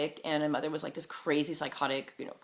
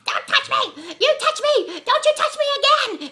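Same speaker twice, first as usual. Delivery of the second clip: high, loud frantic shriek; crazed screaming; 7 dB louder than usual. Retold or imitated. Possessed lady cringing from her dad, crazed screaming. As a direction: imitate a crazed woman shrieking in recoil. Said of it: "started, like, acting crazy".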